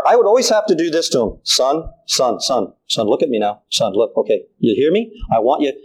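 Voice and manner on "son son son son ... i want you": put-on low, insistent call to a small child; firm fatherly call for attention; a hint of a father getting his boy's ear; calling to son.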